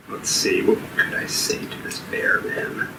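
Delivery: whispering. Real, not acted. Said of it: "thinking aloud softly".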